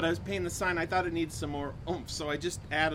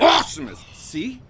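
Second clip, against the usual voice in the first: monster truck ad; 7 semitones higher, 8 dB louder than usual. Acted. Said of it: "monster truck announcer".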